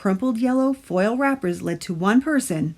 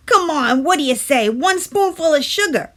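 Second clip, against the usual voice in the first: higher, louder coaxing; urging tooth; 8 semitones higher, 5 dB louder than usual. A narrator's reading. Tooth urges Stuart at breakfast, higher and coaxing. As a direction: wheedle for sugar. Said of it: "urged the Tooth".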